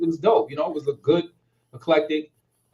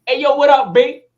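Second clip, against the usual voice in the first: loud, high call across the store; yelling a greeting into the Foot Locker; 12 semitones higher, 10 dB louder than usual. Retold or imitated. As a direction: shout to catch an old friend's attention. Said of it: "I was like".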